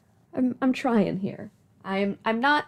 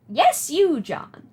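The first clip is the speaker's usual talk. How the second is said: Nana voice; 4 semitones higher, 4 dB louder, much slower than usual. Acted. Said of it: "Do you like my Nana voice?".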